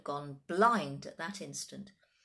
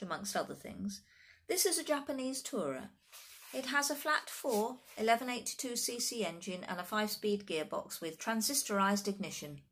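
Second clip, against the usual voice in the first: higher-voiced child expert; precocious little boy; 4 semitones higher than usual. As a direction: reel off specifications like a small know-it-all.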